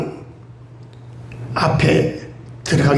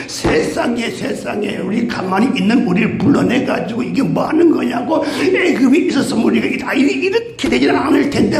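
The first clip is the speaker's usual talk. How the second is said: mock wailing; 2 semitones higher than usual. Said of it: "막 원망과 불평을".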